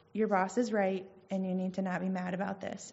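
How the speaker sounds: retold calm verdict. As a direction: quietly lay down the verdict, imitating a husband. Husband's calm answer in retold quarrel.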